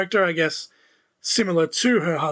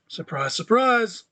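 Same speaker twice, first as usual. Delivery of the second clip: slow, higher-pitched sarcastic mock surprise; obvious sarcasm; 4 semitones higher, slower than usual. Real, not acted. Podcaster on a predictable match result, sarcastic. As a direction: draw it out with dry sarcasm. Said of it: "That's obvious sarcasm, by the way".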